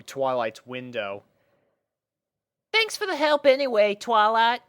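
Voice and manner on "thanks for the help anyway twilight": high filly voice; grateful Apple Bloom. Acted. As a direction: thank her brightly. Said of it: "said Apple Bloom".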